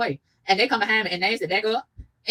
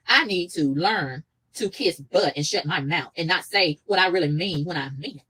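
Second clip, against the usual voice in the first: pointed rewording; slower than usual. Real, not acted. Sarcastically rewording the mama's advice.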